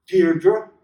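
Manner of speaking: Deirdre with a faint stress on the first syllable, like a caress. Acted. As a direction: lean tenderly on the first syllable of Deirdre, rising. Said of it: "with the faint stress on the first syllable".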